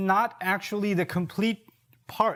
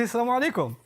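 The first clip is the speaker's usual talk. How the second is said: "Assalamu alaikum" said warmly, as if with a smile; friendly, respectful "Assalamu alaikum"; warm greeting; 3 semitones higher, much faster than usual. Shown as a demonstration. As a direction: greet them like you mean the hug. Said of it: "you can say it with a smile ... a warm look".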